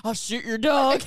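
loud quote through laughter; mock dirty talk. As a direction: imitate clumsy seduction, barely holding it together. Repeats Michael's line while laughing.

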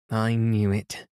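a touch of proud triumph, lightly voiced; proud cry. A narrator's reading. Bertha to the carrier's wife, proudly vindicated, mild cry. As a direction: say it like you were sure all along. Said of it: "cried Bertha proudly".

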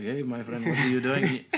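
imitated Middle Eastern accent; friendly shopkeeper with a put-on Middle Eastern accent. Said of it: "dudes from the Middle East".

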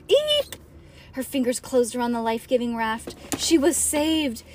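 put-on dramatic read-aloud for children; story narration. A narrator's reading.

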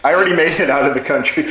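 quick words riding on a laugh. Real, not acted. Joking to co-hosts about having left the country, laughing. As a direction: say it fast while chuckling.

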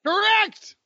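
high, loud game-show cheer; excited shout. Real, not acted. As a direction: announce it like a quiz host. Host cheers a right answer.

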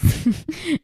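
risa corta y aguda que sube; ríe de golpe en medio de la frase; risita aguda. Real, not acted. (risita aguda)

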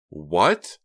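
surprised, loud and rising; startled. A narrator's reading. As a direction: jolt of alarm. Startled reply.

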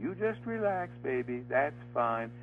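imitating a tough guy's cooing baby talk. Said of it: "started talking baby talk to me".

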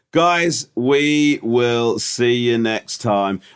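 weary hungover voice; slow morning-after drag. Real, not acted. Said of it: "how hungover I was".

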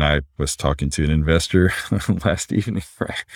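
ordinary delivery

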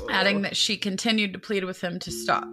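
measured, even read-aloud of a crime report; article narration. A narrator's reading. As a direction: read the account out evenly and seriously.

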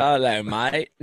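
playful Aussie greeting; mock Australian accent. Bandmate comparing accents with co-hosts, mock Australian. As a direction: try the hello as an Australian.

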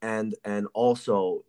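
choppy breaking-up call line; buzzy glitchy call audio. Real, not acted. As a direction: voice breaking up over a bad connection. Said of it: "I think I'm losing you".

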